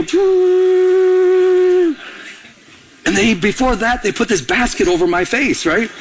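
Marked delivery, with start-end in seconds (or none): 0.0-1.9 long high airy whoosh; imitated machine whoosh. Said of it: "And then they go".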